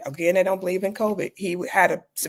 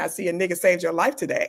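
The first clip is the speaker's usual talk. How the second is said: playful teasing colleague. Retold or imitated. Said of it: "she said something so hilarious".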